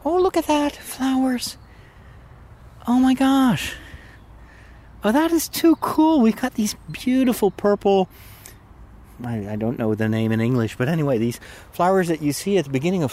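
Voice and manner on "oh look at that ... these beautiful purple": excited. Real, not acted. Spots first spring flowers on walk.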